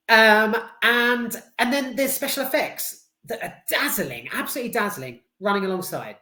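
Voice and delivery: usual speaking voice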